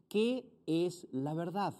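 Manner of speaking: slow, lightly voiced Pilate asking; a hint of Pilate, slow and questioning. Pastor reads Pilate's question, lightly voiced and slow. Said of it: "Le dijo Pilato".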